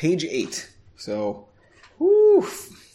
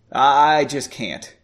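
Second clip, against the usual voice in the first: stone-faced; 3 dB louder than usual. Acted. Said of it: "he responded stone-faced".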